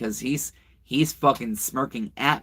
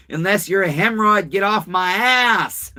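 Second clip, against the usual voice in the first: mock retort; 6 semitones higher, 5 dB louder than usual. Real, not acted. Retort to a troll comment.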